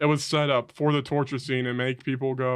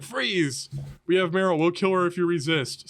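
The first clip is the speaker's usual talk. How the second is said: higher-pitched order, lightly acted; mock goon threat; 3 semitones higher than usual. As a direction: imitate a henchman making an arrest. Enemy goons' threat, acted out.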